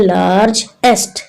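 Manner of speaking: लार्जेस्ट broken in two, "laarj - est"; two-part लार्जेस्ट for a class; split into syllables. Shown as a demonstration. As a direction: say लार्जेस्ट as two separate beats. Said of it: "two parts में पढ़ते हैं".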